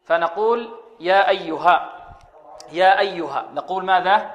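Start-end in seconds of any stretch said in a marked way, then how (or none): 1.0-3.4 "يا أيها" with a short, measured stretch on يا; two-count elongation. Shown as a demonstration. Teacher showing students the two-count madd, measured elongation of "يا أيها". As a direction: hold the long vowel in "يا أيها" for two counts. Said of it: "بحركتين".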